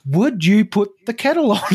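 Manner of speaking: projected, chest-out presenter version of kettle on; mock podcast energy asking for tea. Shown as a demonstration. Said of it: "if I was on the podcast, I'd be like".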